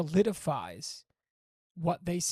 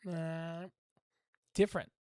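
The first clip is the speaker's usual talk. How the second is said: imitating hungry dog; slower than usual. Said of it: "he does this".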